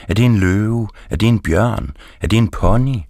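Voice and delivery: climbing, incredulous questions; rising amazement. A narrator's reading. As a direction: build wonder guess by guess. Escalating guesses at the dog.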